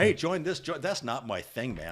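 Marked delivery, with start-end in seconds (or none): 0.0-0.8 mock hard sell, higher and louder; pushy recruiter pitch. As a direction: imitate an eager social media promoter. Mimics pushy social media recruiters.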